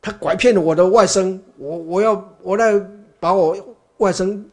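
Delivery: storytelling outrage, half-acted; indignant accusation. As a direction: accuse him to his face. Brahmin accuses Buddha of abducting nephew.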